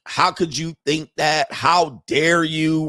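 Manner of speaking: slow, drawn-out mock scolding; mock outrage. Women scolding men for talking like this, mock outrage. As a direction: stretch each word in feigned indignation.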